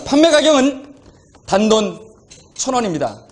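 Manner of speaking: rising, bright sales hype; hard sell ad. Pretend. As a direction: push the bargain hard. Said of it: "지금부터 한번 팔아보겠습니다".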